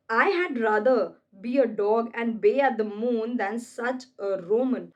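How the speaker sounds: slow, weighty reading of Brutus; slow Shakespeare reading; dramatic recitation. Acted. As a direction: declaim the line slowly, like on stage. Reads Shakespeare line slowly.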